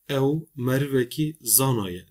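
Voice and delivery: ev merveki zanaye with short Turkish A's; mispronounced example; wrong Turkish-style reading. Shown as a demonstration. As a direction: say it with clipped Turkish vowels as the error.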